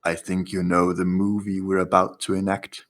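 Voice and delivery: low, drawn-out ominous bartender; menacing bartender. Acted. Bartender to the player before throwing them into flames, ominous and slow. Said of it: "the bartender ... looking at you, uh, with wide eyes and says".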